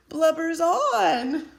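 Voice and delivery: laughing loud and slow; laughing through it. Real, not acted. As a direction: giggle as you read the words. Laughs while reading.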